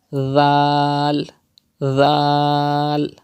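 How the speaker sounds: "Zal" begun with a soft th as in "this"; soft, no whistle. Shown as a demonstration. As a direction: draw out "Zal", tongue at upper teeth, no buzz. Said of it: "Put your tongue under the upper teeth".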